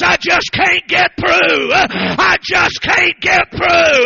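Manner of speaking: slow, loud, grieving repeat; slow lament of her last words; mournful repeat. Retold or imitated. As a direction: let the dying words ring.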